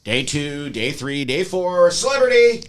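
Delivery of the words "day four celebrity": building to loud. Acted. Building up to fame punchline.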